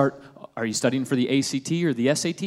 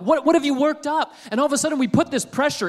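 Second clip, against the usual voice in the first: incredulous challenge; 10 semitones higher than usual. Real, not acted. Preacher rebuts loudly.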